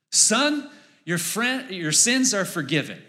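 Jesus. Acted. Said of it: "and he says".

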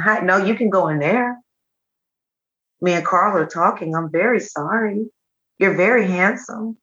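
sweet, swooping pet-talk; lilting, indulgent aside to the dog. Real, not acted. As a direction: coo an apology to a spoiled little dog.

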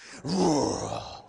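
long rolled groan, falling away; uneasy groan. Acted. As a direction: groan "rrruh" at the tension in the room. Reacts to tension in the room.

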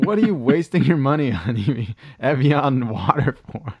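mock-furious parent yell. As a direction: scold a kid for wasting money. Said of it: "They were furious. Like".

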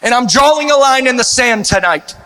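fervent rallying preacher; rally the church to battle; rally speech. Acted.

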